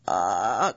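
low, drawn-out "ah"; storybook father's low wail; exasperated cry. A narrator's reading. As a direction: groan out a low cry of despair. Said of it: "cried Papa Wolf".

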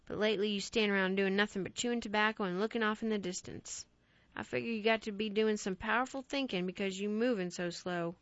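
a lightly voiced stern farmer father; hint of a gruff country dad telling his boy off; scolding father. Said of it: "His father saw no sense to it".

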